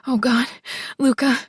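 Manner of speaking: breathless cry of pleasure; passionate cry. Acted. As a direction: call his name in ecstasy. Heroine cries out in passion.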